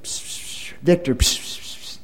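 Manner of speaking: hissed whispers from the corner; psst whisper. Retold or imitated. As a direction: call him over in a sneaky whisper. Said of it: "I hear something like this".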